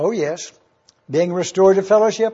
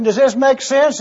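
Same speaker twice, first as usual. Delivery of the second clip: raised, higher question to wake the room; brisk question; 4 semitones higher than usual. Real, not acted. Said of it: "I'm gonna ask you a question".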